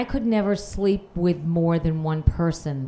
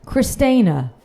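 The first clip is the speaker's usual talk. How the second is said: slow, much louder, higher mock sign-off; 3 semitones higher, 9 dB louder, slower than usual. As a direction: stretch the sign-off out loudly for laughs. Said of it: "mock letter sign-off".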